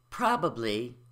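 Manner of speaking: "probably" in three syllables, prob-uh-blee; full syllables. Shown as a demonstration. Teacher introducing the word, every syllable said. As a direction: keep both B's in "probably". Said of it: "where we reduce the B syllable".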